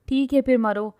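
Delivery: loud fed-up snap; irritated, done with her; exasperated outburst. Acted. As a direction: throw up hands and snap. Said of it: "سخت خوار اور جھنجھلاہٹ سے کہتا".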